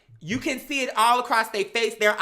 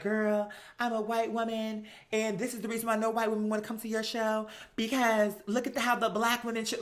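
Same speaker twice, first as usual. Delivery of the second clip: mock innocent white woman; 6 dB quieter than usual. Mocking Kim to the listener, soft prissy voice. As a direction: play the wounded innocent lady, lightly.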